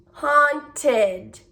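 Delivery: "haunted" with ED said as a separate "id" syllable; id ending. Shown as a demonstration. Teacher showing ED after T, "haunted" ending in id. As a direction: end "haunted" on a clear "tid". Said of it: "it's gonna say id at the end".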